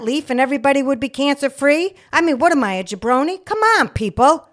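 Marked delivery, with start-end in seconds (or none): 2.1-4.5 high, loud what am I a jabroni; incredulous outburst. Real, not acted. Nurse mocking cancer-cure advice, loud and incredulous. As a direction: challenge the crowd in disbelief. Indignant rant to audience.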